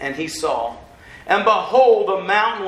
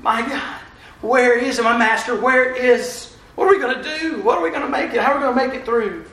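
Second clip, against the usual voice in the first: mild panicked cry; 2 semitones higher than usual. Acted. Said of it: "crying out".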